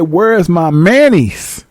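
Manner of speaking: slow, drawn-out query; lightly voiced man asking for his undies; slip-up man. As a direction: ask for your manis slowly. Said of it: "He said".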